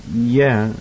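put-on hesitant, drawn-out child's yes; a little dubious. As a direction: agree as if not quite convinced. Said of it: "a little dubious".

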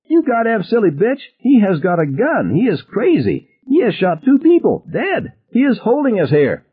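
very high, strained hysterical outburst; frantic anger, pitch way up; panicked rage. A narrator's reading. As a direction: rail at her in desperate fury. Ted rages at Ann in panic.

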